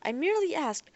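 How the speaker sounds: restrained anger. Acted. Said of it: "Clamping his jaw in his anger".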